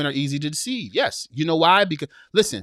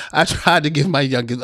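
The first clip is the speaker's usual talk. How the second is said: holding back laughter; 2 semitones lower, 6 dB louder than usual. Real, not acted. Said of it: "read this without laughing".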